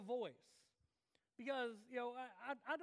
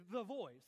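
"the" punched loud before "Voice"; TV show title emphasis; 5 dB louder than usual. Shown as a demonstration. Preacher likening it to the TV show, emphatic THE. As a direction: announce "Voice" as a big title, weight on "the". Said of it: "Like the T V show".

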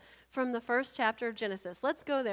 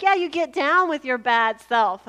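mock hype; 11 dB louder than usual. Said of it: "she's like".

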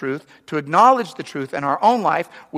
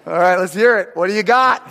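sarcastic challenge; 3 semitones higher, 6 dB louder than usual. Retold or imitated. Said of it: "You're like".

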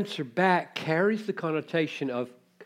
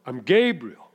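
firm rebuke; 8 dB louder than usual. Acted.

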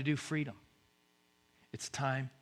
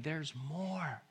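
softly offered; a hushed promise; quiet invitation; 6 dB quieter than usual. Acted. God tells others of you there is more, softly.

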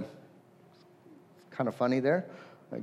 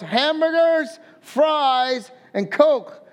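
proud order; 4 semitones higher, much slower than usual. Retold or imitated. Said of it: "he goes".

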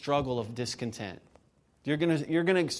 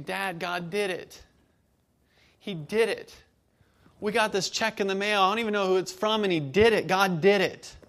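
put-on rising, louder, thrilled boy on the phone; excited child; 6 semitones higher, 4 dB louder than usual. Son calling dad about the check, excited shout. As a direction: voice the son bursting with news.

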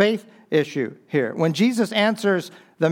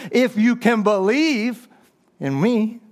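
Jesus answering; 6 semitones higher than usual. Acted. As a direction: lean on If, then ease into the promise. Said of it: "Jesus turns his words around on him".

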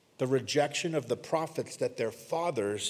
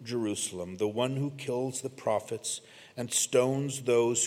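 brokenhearted lament; 2 semitones lower than usual. Retold or imitated. Preacher voicing Jesus lamenting over the city, understated sorrow. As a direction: quote a grieving lament, gently understated. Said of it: "Jesus is brokenhearted".

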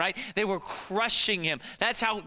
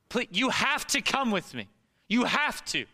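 higher and urgent, begging a stranger for help; desperate pleading; 3 semitones higher than usual. Pretend. Pastor voicing Jairus begging Jesus to come now, desperate and urgent. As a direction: plead as if your child is dying. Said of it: "What was it like?".

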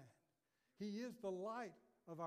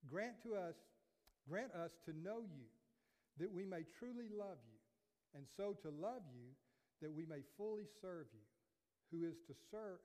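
measured, reverent prayer read aloud. Acted. Pastor reading Augustine's prayer to the church, reverent.

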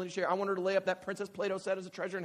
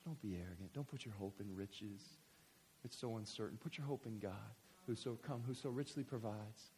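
quiet scripture reading; 7 semitones lower, 8 dB quieter than usual. Acted. Preacher ending the sermon, quiet reverent reading. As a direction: read the verse gently to close.

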